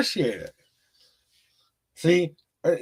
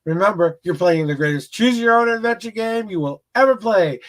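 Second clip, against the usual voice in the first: motivational spiel. Acted. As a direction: preach life advice like a hype speaker. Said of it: "there's my little spiel".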